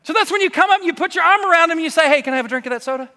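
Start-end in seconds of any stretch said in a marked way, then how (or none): 2.1-3.1 joking. Retold or imitated. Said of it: "No, I'm just kidding".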